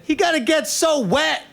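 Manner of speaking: put-on very high, squeaky giggling old lady; little old lady voice. Tiny lady laughs at the soaked man, squeaky and giggling.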